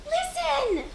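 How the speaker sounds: hushed. Acted. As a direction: hush him to hear a sound. Child hushing father to listen.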